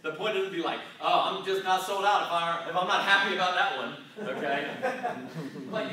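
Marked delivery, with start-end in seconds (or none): 1.0-4.0 mock whiny believer. Mocking a complacent believer.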